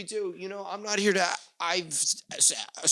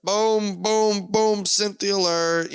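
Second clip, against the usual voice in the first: louder, higher alarm-like chant; mock alarm call; 5 semitones higher, 5 dB louder, slower than usual. Waiter's inner alarm calls for Cynthia, loud and high. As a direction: sound off like a siren in your head. Alarm going off in his head.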